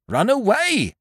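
high, flustered landlord stammering; panicked. A narrator's reading. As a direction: blurt it out in a panic.

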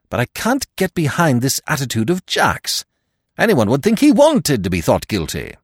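high, loud, forthright secretary; frank Stoner. Acted. Stoner as a figure of the story.

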